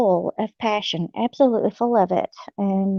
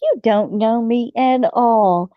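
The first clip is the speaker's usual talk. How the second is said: indignant; 3 semitones higher than usual. Retold or imitated. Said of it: "And I'm like".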